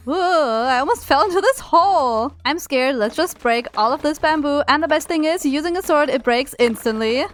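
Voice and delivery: ordinary talk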